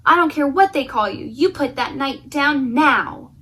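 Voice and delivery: mock-stern damsel; damsel scolding. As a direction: order him firmly.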